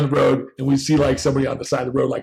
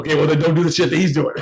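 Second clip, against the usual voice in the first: mother's lesson, laughing. Retold or imitated. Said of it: "She's like".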